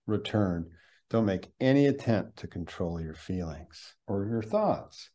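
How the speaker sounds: guided meditation. Shown as a demonstration. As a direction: lead them into the breath gently. Leads a sample meditation.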